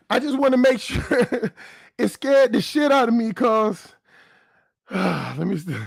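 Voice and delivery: breathless, laughing, shaken; out of breath. Real, not acted. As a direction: talk while catching breath. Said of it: "let me breathe for a second".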